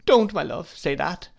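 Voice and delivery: high, loud piteous plea; piteous imploring. Acted. Wife begging husband not to say it. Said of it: "implored my mother very piteously".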